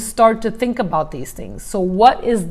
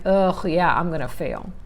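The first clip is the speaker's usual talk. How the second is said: soft, sinking resigned mutter; defeated inner voice; 4 semitones lower, 5 dB quieter than usual. Retold or imitated. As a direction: give up before you start, fading away. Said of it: "you're already thinking like".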